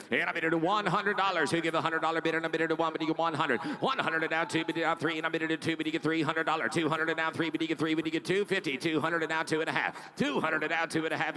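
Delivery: fast rhythmic auction chant; auctioneer. Real, not acted. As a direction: rattle off the bids like an auctioneer. Auction bid calling.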